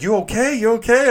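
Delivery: high, loud teasing "you okay"; mock concern. Teammates mocking his shaking.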